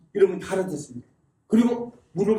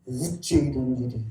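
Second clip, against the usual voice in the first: low, slow Gyeongsang-accented impression; 김영삼; 7 semitones lower, 5 dB quieter than usual. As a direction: imitate an old-school Gyeongsang politician, drawn out and hushed. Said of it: "김영삼 대통령 그때 성수대교". (경상도 억양으로 낮고 느리게 흉내)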